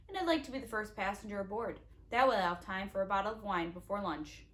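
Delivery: gloating villain. Acted.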